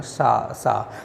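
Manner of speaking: "सा, सा" as separate fricative syllables; sound demonstration. Shown as a demonstration. Teacher has students feel the air, sounding out "सा, सा". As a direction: repeat "सा, सा", each on its own. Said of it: "जैसे हम लोग उच्चारण करते हैं".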